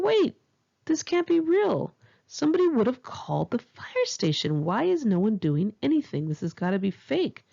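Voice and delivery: high, incredulous, settling back down; can't believe the house is burning; disbelieving surprise. Retold or imitated. Retold thought watching house burn.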